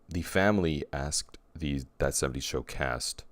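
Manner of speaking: speaking through a burp; words cut by a burp. Real, not acted. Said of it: "excuse me, I'm burping".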